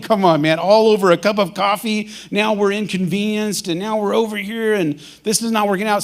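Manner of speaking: retold annoyed rant over coffee; irritated. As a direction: vent about missing the flight. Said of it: "now I'm getting a little irritated".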